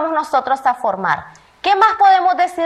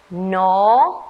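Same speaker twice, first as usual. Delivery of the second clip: put-on slow, separate syllable for children; syllable drill; 6 semitones lower than usual. Shown as a demonstration. Teacher reading the N syllables to first graders. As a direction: say the syllable on its own. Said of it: "Todos leamos".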